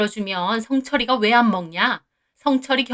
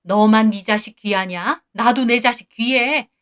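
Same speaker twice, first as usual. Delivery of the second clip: mother-in-law's rant; 2 semitones higher, 3 dB louder than usual. Acted. Mother-in-law ranting at the wife about her son, loud and furious. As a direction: pound every accusation home.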